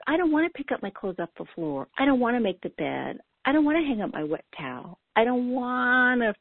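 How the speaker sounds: put-on lightly whiny inner toddler listing chores; a hint of a sulky child refusing; mild mock toddler whine. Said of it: "that little whiny voice that says".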